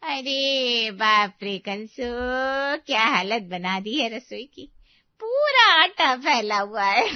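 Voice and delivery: mocking laughter at the mess; laughing loudly. Neighbour mocking rival's kitchen mess, laughing loudly. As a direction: laugh at your rival's shame. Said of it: "जोर से हंसने लगी".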